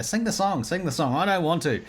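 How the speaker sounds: imitating pushy parents and a reluctant kid; mock childhood whine; pestering and reluctant. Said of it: "that was like, they".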